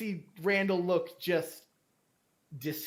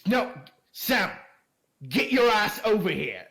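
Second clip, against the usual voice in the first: 1 calling for son; 3 semitones higher, 4 dB louder than usual. Acted. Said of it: "he goes".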